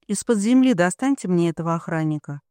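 usual speaking voice

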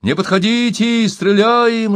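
high, loud defensive call; storyteller voicing cries from a fort; shouted warning. A narrator's reading. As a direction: shout them back in a high voice. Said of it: "раздались крики".

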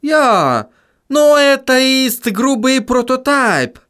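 put-on high, slow German-accented vampire; sheepish German accent. A narrator's reading. Otto's accented voice.

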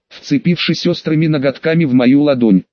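usual speaking voice

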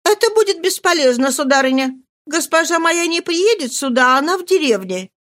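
high, loud maid turning her away; haughty maid. Acted. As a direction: brush the visitor off firmly. Maid blocks the door.

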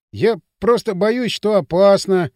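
slow, reluctant admission; hesitant worry. Acted. Пельмень tells his friend he fears the cow, slowly and uneasily. Timid friend admits fear.

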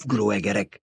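quiet murmur of recognition; whispering. A narrator's reading. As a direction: whisper the discovery softly. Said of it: "suttogta Paul".

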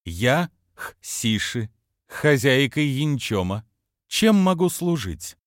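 slow, whistling sibilants, clear words; hissing cat voice. Acted. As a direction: speak like a big cat with a hiss. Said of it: "Произносит с присвистом, но отчётливо".

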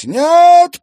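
loud, high ghostly roar; rumbling ghost. Acted. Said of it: "пророкотал призрак".

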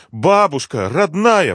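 high, loud cry of relief; joyful exclamation. Acted. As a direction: call out to grandma with overflowing relief. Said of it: "воскликнула Римма".

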